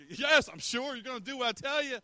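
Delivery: high, strained, insistent sergeant voice; stern drill sergeant. Acted. Sergeant ordering doubting men to obey, stern put-on voice. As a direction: put on a bossy officer's voice.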